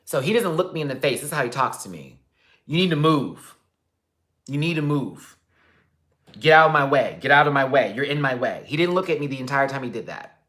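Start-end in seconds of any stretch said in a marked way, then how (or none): 2.6-5.4 imitating a curt bike man, a bit high and louder; mock rude order. Man on the train ordering him aside, curt mock voice. 6.4-8.6 barked mock order, much louder. Man with the bike yelling at him to move, loud mock order.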